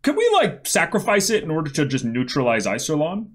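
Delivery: lightly acted high-pitched pitch of a plan; playful imitation of an eager planner; mock schemer. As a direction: float the idea high, then commit. Acts out commanders hatching the plan.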